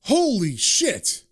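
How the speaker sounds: a drawn-out, slow exclamation; a surprised call across the diner; mock yell. Old buddy spotting John in the diner, slow mock yell. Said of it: "someone yells".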